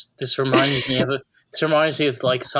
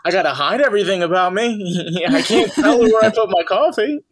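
Seinfeld impression; 4 semitones higher, 3 dB louder than usual. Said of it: "And you're like".

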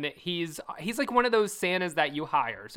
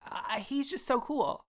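mock dreamy Hillary; 7 semitones higher, 4 dB quieter, slower than usual. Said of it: "Hillary's like".

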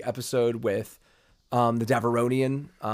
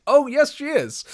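high, gleeful confirmation; louder, leaping up in pitch with relish; knowing delight; 12 semitones higher, 5 dB louder than usual. Retold or imitated. Telling a friend the character matters, knowing delight.

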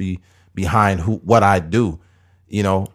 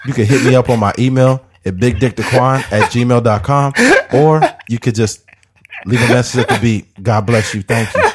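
ghetto professional voicemail; 2 semitones higher, 3 dB louder than usual. Retold or imitated. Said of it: "trying to be professional, but they ghetto".

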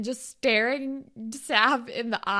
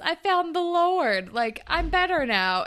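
Fitz; 7 semitones higher, 4 dB louder than usual. Retold or imitated. Imitating Fitz telling Claire he found the Lord, overacted. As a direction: overact an earnest born-again claim. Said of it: "he's a terrible actor".

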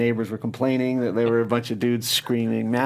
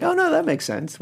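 retold realization. Retold realization about a good idea.

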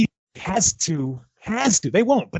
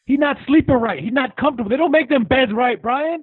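mock whiny fighter; 4 semitones higher than usual. Mocking Jeff Horn's complaints.

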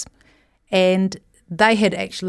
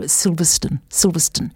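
put-on posh English accent. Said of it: "you have to say it like the posh people there do".

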